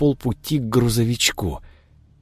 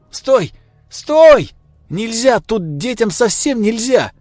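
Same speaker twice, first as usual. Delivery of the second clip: high, loud desperate shouting; 13 semitones higher, 5 dB louder than usual. Acted. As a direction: yell after the running child. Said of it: "кричала она".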